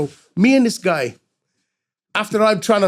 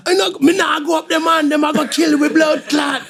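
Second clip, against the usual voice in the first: panicked refusal; 10 semitones higher than usual. Retold or imitated. To the buyer, refusing in a high panicked shout. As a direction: beg him to get in the car.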